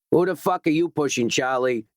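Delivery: squaring up for a fight; aggressive. Acted. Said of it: "sweaty and aggressive".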